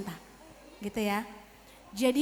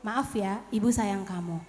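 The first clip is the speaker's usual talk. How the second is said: low, softened motherly voice; tender apology; 5 semitones lower, 4 dB quieter than usual. Acted. Mother saying sorry to her child, tender apology. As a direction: apologise gently in a lowered pitch.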